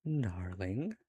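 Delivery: put-on British accent, softly drawn out; drawled British accent, dipping then rising; Daniel. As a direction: imitate a British "darling" with a swooping rise. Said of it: "I imagine him with a British accent".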